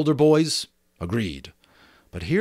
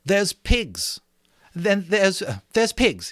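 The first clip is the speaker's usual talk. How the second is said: put-on lightly raised boyish voice; boy Jack, eager; 10 semitones higher, slower than usual. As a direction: blurt out the news.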